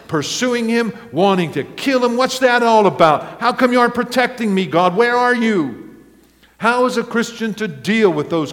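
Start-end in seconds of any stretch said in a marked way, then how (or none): 2.2-6.0 raised, pleading voice of Elijah crying out to God; Elijah's anguished complaint. Acted. Elijah protests to God that he is unprotected, voice raised and pleading. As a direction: throw the accusation at heaven, fast and hurt.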